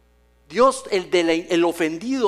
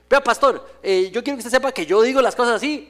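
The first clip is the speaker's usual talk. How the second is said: higher, louder, self-assured member; mock a member boasting to the pastor; churchgoer to pastor; 4 semitones higher, 3 dB louder than usual. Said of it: "le dice". (miembro jactándose ante el pastor)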